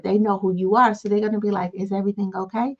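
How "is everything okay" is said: calmer tone. Retold or imitated. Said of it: "respond in a calmer tone".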